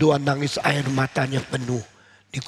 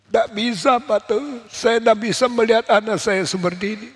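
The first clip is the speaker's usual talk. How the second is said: much higher, anguished refusal; desperate weeping plea; 7 semitones higher than usual. Acted. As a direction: she cannot accept comfort, voice cracking high. Monica refuses comfort, weeping.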